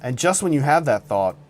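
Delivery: suspenseful campfire-story voice; dramatic storytelling. Acted. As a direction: paint a tense scene like a thriller. Dramatic story narration of roast.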